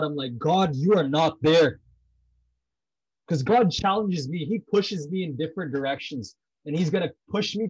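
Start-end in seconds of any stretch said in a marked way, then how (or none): 0.4-1.8 slow, louder challenge to God; defiant, deliberate accusation; challenging God. Acted. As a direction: confront God, each word leaned on. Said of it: "Sometimes I challenge God".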